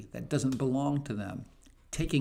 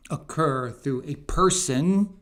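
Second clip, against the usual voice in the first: person punched louder; stress on person; 2 semitones higher, 6 dB louder than usual. Real, not acted. Commentator placing blame on the shooter, stress on person. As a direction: lean hard on the word person. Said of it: "I put the emphasis on person".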